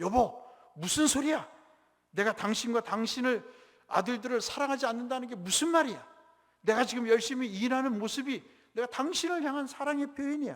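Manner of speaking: high, loud shouting.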